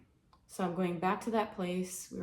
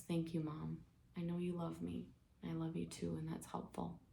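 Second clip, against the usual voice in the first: soft acted reply, growing quieter; gentle gratitude; 6 dB quieter than usual. Daughter tells mother she knows she is loved, softly grateful. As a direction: answer lovingly, in a small quiet voice.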